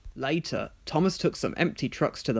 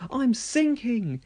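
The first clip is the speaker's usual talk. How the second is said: higher, slow panicked cry; 9 semitones higher, slower than usual. Acted. Thomas sinking into the pit, slow panicked cry. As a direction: wail as you sink.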